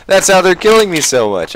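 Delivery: high, laughing repeat. Real, not acted. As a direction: laugh through the words.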